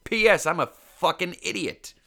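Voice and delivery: hammed-up idiot voice; mocking own dumb self. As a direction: play yourself as an oblivious dope. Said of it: "I'm just like".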